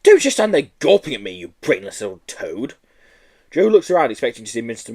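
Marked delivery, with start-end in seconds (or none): 0.0-2.7 a touch of a nasty teacher's scold; lightly voiced scolding schoolmistress. Miss Hatchet scolding Joe for gawping, mildly nasty.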